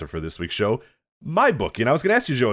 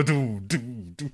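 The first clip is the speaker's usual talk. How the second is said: imitated drum; 7 dB quieter, slower than usual. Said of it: "You go".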